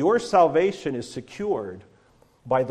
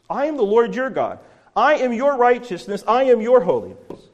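loud, higher, commanding voice of God; thundering God voice; 8 semitones higher, 5 dB louder than usual. Acted. Preacher voicing God at Sinai, loud and commanding. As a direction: proclaim it like God from the fire.

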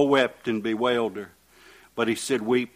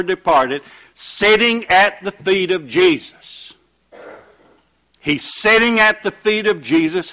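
raised, emphatic pulpit delivery; impassioned preaching; 6 semitones higher, 7 dB louder than usual. Real, not acted. Preacher retelling a healing to the congregation, impassioned. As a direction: preach it out with rising fervor.

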